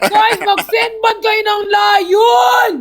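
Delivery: drawn-out high-pitched plea; high, slow whiny appeal; pleading call-out. Real, not acted. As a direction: beg the viewers, stretching the words out. Begging viewers to send gifts.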